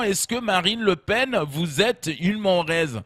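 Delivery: slow, drawn-out question; questioner. Retold or imitated. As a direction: put it slowly like a solemn interviewer. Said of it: "on lui pose cette question".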